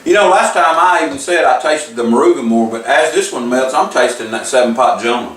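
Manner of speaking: talking around a candy; candy in mouth. Real, not acted. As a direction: speak with a candy on the tongue. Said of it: "It just fell out. It's back in".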